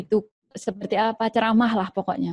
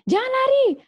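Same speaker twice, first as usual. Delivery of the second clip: much higher, sharp mother's order; bossy mother. Acted. Mother ordering her child to get down, sharp command. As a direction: boss the child off the furniture. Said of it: "Atau lari-lari".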